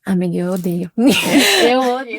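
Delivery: laughing through mock despair; half-laughing groan of dislike; laughing complaint. Real, not acted. Laughing complaint about texting.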